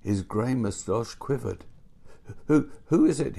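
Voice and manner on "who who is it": louder, higher, stammered question; startled old man calling out; startled cry. A narrator's reading. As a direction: cry out as if jolted awake. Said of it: "he cried".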